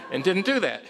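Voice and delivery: high, laughing relief. Real, not acted. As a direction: laugh through the words.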